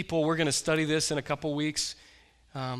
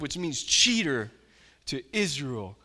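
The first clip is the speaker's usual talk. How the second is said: normal talking voice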